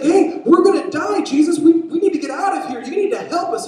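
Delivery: high, very loud panicked plea; frantic full-voice acted alarm; desperate shouting. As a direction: yell for help over the storm. Disciple shouting over the storm.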